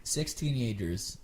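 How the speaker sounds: slow, dramatic trailer narration; movie trailer voice. Shown as a demonstration. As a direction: announce it like a film trailer. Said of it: "I've been doing my mimic voice".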